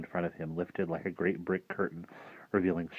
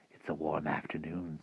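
softer, offhand remark; casual hint; 2 semitones lower, 8 dB quieter than usual. Acted. Rictus idling on the porch, quietly casual. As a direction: drop the volume, idly suggestive.

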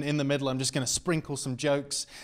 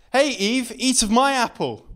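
louder, higher teasing come-on; hint of a tempter; 10 semitones higher, 9 dB louder than usual. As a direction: slink it like a seducer. Best friend as tempter.

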